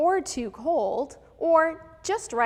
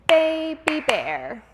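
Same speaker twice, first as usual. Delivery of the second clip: louder, slow little bear voice; Baby Bear voice; 3 semitones higher, 7 dB louder, slower than usual. Shown as a demonstration. Teacher demos Baby Bear for the class, loud and slow. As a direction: call it out like a small cub. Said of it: "a high-pitched, fast, and light voice".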